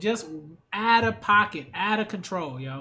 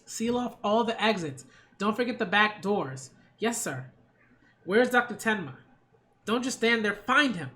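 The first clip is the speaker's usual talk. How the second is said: lightly voiced urgent orders, raised; commanding inspector. Inspector orders officers to find the doctor, lightly commanding. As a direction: give brisk orders with a touch of urgency.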